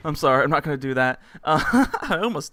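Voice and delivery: fast, laughing apology. Real, not acted. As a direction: giggle through the words. Laughing after nearly imitating moan.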